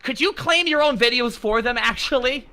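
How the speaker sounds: sarcastic Southern preacher voice; Southern accent. Acted. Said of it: "but you did a Southern accent".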